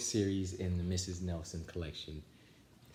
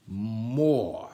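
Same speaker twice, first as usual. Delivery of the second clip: louder, barked order; a drill coach demanding more; stern command; 4 dB louder than usual. A narrator's reading. Coach drives the team through leg raises, barked order.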